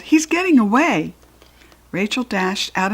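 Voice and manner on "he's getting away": high urgent call across the house. A narrator's reading. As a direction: call out in a hurry. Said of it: "she called".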